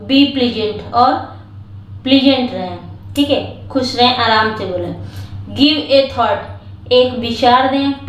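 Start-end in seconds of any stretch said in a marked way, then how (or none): 5.6-6.9 slow, careful reading of a phrase; slow read-aloud. Shown as a demonstration. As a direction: read the English slowly for the class. Reads the English phrase slowly. (धीरे-धीरे पढ़ना)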